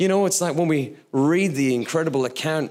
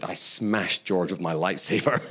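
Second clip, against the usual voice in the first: put-on sheepish child; 6 semitones lower than usual. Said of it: "He said".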